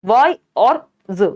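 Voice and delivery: वाई और ज slowly, each sound separate; split into syllables. Shown as a demonstration. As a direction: break wise into वाई, then a short "z" for ज. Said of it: "या फिर वाइज में भी".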